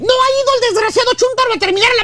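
hammed-up fed-up complaint; exasperated rant. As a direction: rush it out in comic indignation. Ranting about the unfinished fence.

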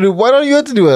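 put-on whiny kid voice. Father imitates his kids complaining, high and whiny. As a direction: whine it like a small kid. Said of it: "they say".

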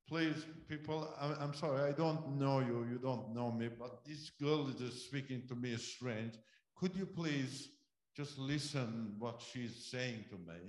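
loud, urgent plea to the people sitting round; pleading call to the crowd. Retold or imitated. Shocked guest begs the people sitting around him, loud and urgent. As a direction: call out to everyone, shaken and begging. Man calls out to the circle.

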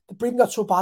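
a real laugh breaking through the words; laughing at the memory mid-sentence. Real, not acted. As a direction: chuckle it out while explaining. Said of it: "I was breathing like that".

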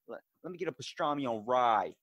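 light Boston accent on the deli order. Shown as a demonstration. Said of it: "like, Boston's like".

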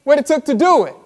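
Jesus asking. Retold or imitated. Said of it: "That's what Jesus is like".

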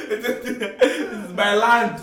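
slow, grand, laughing; slow declaration. Pretend. Mock proud declaration, slow.

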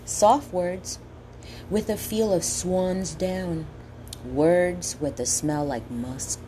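slow, savoring each word; poem reading. Acted. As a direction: relish the sounds of every word. Reads quoted poem slowly.

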